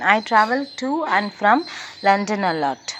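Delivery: "to" given the main stress, falling. Shown as a demonstration. Teacher showing stress on opposite prepositions. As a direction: push "to" against "from". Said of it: "stress on opposite prepositions".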